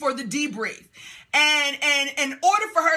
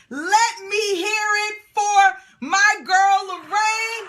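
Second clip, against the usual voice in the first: slow, drawn-out, higher hype call; rallying announcer call; 4 semitones higher, slower than usual. Real, not acted. Coach rallies the group for Lorraine, drawn-out announcer call.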